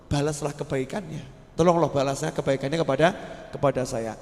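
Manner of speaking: a pious man interceding for his rescuer, softly; humble prayer. Acted. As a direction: pray quietly for the man who saved you. Pious man praying to God.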